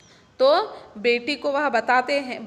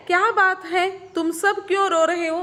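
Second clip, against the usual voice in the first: concerned Kunti; 6 semitones higher than usual. Acted. Teacher voices Kunti asking the crying family, higher and concerned. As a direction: ask gently but urgently why they cry. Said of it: "Kunti क्या कहते हैं देखिए".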